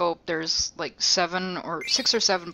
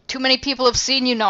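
mother impression; 5 semitones higher, 5 dB louder, faster than usual. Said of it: "And Mom goes".

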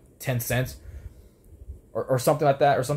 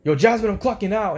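higher, louder call across a room; retold yell; 9 semitones higher, 5 dB louder than usual. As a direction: call out to someone far off. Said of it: "yelled from across the room".

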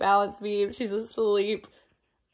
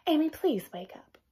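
softer, gentle coaxing; mother gently coaxing her daughter; nice mother voice; 5 semitones higher, 5 dB quieter than usual. Acted. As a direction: ask her nicely, softly. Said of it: "very nicely said".

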